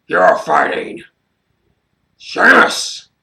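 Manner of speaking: rising from a whisper to a high shout; hammed-up Vince roar; mock Vince yell. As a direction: build to a screamed reveal. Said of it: "and he's like".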